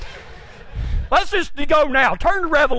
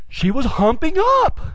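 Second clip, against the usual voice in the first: slow insistence. Retold or imitated. Slow insistence in retold argument.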